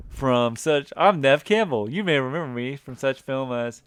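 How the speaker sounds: hammy presenter-style introduction; Troy McClure. Acted. Host introducing Neve Campbell, hammy presenter impression. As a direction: announce the name loud, then reel on. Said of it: "Hi, I'm Troy McClure".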